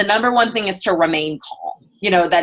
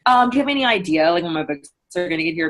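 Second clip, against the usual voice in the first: quick casual ask; much faster than usual. Retold or imitated. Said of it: "assume that they're like".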